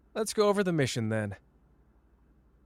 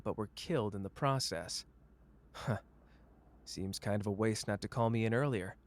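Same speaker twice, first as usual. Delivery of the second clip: quieter briefing; 2 semitones lower, 5 dB quieter than usual. Acted. Going over mission briefing.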